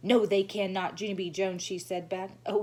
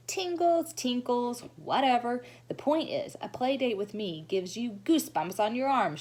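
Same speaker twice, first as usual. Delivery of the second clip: put-on high, bright gushing little girl; gushing showy girl; 5 semitones higher than usual. Lucille gushing to the children, high and showy. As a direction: gush to the whole class.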